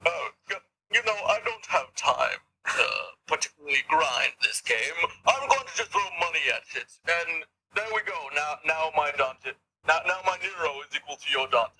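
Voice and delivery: put-on high, smug rich-kid voice; posh voice. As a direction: lord it over a poorer player. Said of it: "the posh voice?".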